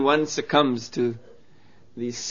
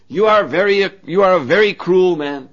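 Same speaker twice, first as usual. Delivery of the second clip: scolding; 4 semitones higher, 8 dB louder than usual. Acted. Playboy scolding the Brahmin.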